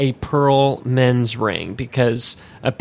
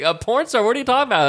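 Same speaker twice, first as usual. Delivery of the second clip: retold disbelief; 10 semitones higher, much faster than usual. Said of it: "and I was like".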